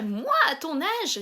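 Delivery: slow, lightly voiced old granny; grandma voice. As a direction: stretch out moi like a lecturing grandma. (mamie qui fait la leçon, en traînant sur « moi »)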